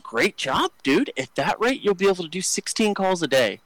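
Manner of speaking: hammed-up fake praise dripping with sarcasm; sarcastic praise. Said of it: "I'm just being, like, a dick to him".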